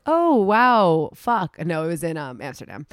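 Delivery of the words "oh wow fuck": higher, louder mock dismay. Boyfriend hearing she got sick before, mock dismay. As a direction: play his deflated reaction. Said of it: "And he was like".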